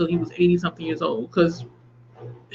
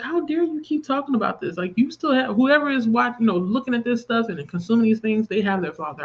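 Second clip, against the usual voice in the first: indignant inner voice; 5 semitones higher than usual. Retold or imitated. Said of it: "I kept thinking to myself".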